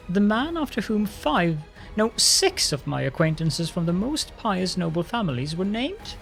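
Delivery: mocking disbelief. Darren mocks the lich's name.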